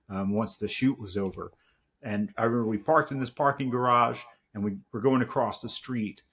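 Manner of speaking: usual speaking voice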